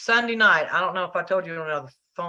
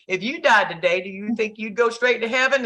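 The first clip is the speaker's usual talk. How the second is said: turning the question back; 5 semitones higher, 3 dB louder than usual. Retold or imitated. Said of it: "let me ask you".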